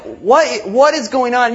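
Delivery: shocked bystanders. Retold or imitated. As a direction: ask it in sudden alarm. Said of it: "people are like".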